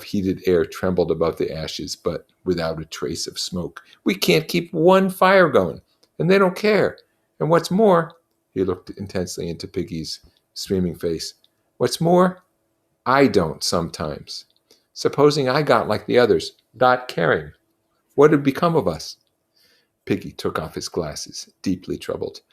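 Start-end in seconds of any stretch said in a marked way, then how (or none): 4.0-8.2 Ralph, frustrated. Acted. 11.8-19.2 put-on a boy pleading, voice a little higher and urgent; earnest anxious pleading, lightly voiced; Ralph, worried. Ralph continues confession.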